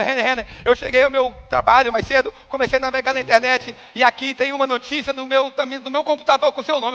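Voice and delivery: acted excited breathlessness; breathless. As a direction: relay urgent news as if out of breath. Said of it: "ela voltou a ficar ofegante".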